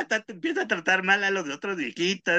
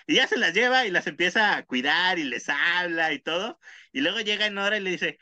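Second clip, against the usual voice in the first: ordinary talk, nothing marked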